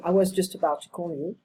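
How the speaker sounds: "I was just about to call you" said quickly, words run together; fast reduced repeat. Shown as a demonstration. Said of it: "repeating, reduced fast".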